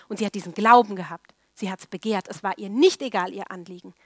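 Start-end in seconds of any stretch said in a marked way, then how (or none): none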